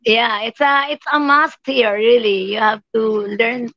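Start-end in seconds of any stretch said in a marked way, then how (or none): none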